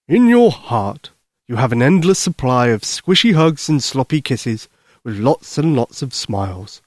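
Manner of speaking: lightly voiced, tender Santa; kindly Santa Claus. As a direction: explain gently to a child as Santa.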